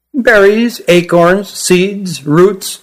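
high, small Kirin voice; young creature voice. Acted. Young Kirin Jilin lists food.

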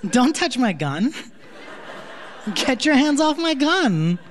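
high-pitched, drawn-out mock warning; indignant warning. Telling someone to keep off the gun, indignant. Acting out a man guarding his gun.

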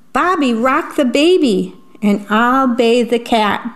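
rally the family to clean; bossy mom. Acted. Mom gives chores in story.

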